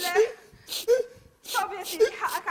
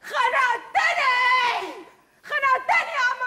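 exasperated outburst; much slower than usual. Real, not acted. She loses patience.

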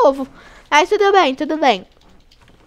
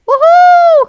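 a loud, much higher whoop of joy; victory whoop; 12 dB louder than usual. Real, not acted. Gamer whooping at escaping the facility, loud and high. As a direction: cheer like you just made it out.

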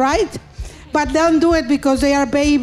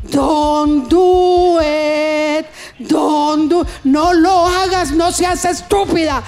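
inner voice. Acted. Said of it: "And the voice, the Jiminy Cricket".

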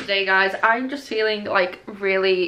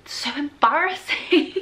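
embarrassed, emotional; 6 semitones higher than usual. Real, not acted. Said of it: "watery eyes every time I get excited".

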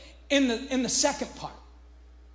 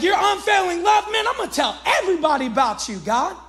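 hyped-up praise; 3 semitones higher than usual. Retold or imitated.

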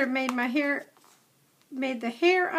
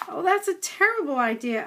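a little higher, frightened whimper; 4 semitones higher, 4 dB louder than usual. Acted. Scared young dog whimpering at Red's idea of biting. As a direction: cower and whimper the words. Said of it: "I whimpered".

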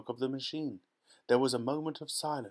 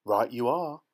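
cried out; 7 dB louder than usual. A narrator's reading. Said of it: "cried Mister Wonka".

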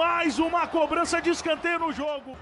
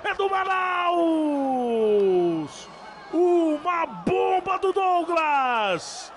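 goal shout; much slower than usual. Real, not acted. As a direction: draw out the goal call. Goal called in live commentary.

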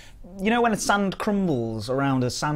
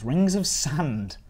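slowly spelled out; 2 semitones higher, much slower than usual. Shown as a demonstration. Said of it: "sand rings?".

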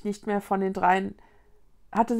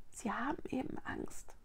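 soft unvoiced whisper; 3 semitones higher, 13 dB quieter than usual. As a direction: whisper it so no one hears. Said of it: "flüsterte Mila".

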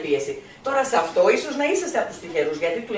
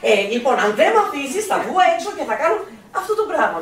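higher mock teen threat, laughing through it; threatening teen; 4 semitones higher than usual. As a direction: play the teen with a playful threat. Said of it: "του τύπου, ας πούμε". (έφηβος που απειλεί αστεία, με γέλιο)

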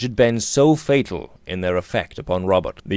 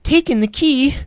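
much higher, louder, incredulous; shocked cry; 5 dB louder than usual. A narrator's reading. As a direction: disbelief rising to a cry. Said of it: "cried Alicia".

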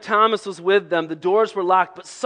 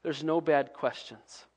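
gentle reassurance; 6 semitones lower, 5 dB quieter than usual. Pretend. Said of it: "I would have said".

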